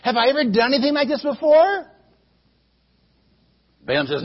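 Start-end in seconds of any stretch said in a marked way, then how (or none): 0.0-1.9 a hurt donkey reasoning gently; talking donkey. Acted. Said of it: "The donkey says".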